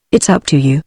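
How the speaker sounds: a light, friendly shrug in the voice; understated pleasant ease. A narrator's reading. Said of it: "said Julius pleasantly".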